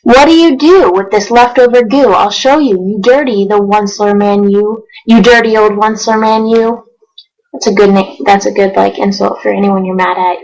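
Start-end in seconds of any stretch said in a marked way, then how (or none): 0.0-6.8 rhythmic read-aloud of rhyming verse; storybook narration. A narrator's reading. Reading Dr. Seuss to viewers, lively storybook narration. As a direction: read it like a bedtime picture book.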